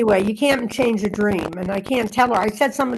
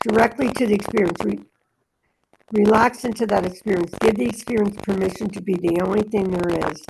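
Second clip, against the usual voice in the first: meditative reading. Acted. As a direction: read it as a calm inner guidance. Continues reading after interruption.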